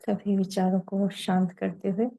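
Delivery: unhurried meditation leader, long pauses between phrases; guided meditation. Real, not acted. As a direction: lead them gently into silence, phrase by phrase.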